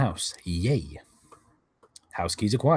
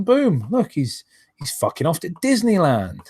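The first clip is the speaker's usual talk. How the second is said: incredulous outburst; 5 semitones higher than usual. Real, not acted. Incredulous at Disneyland trip.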